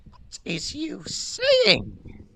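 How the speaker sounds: high breathy roadman mumble; fake tough gangster. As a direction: slur it like a street kid. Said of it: "Why are you speaking like a road man?".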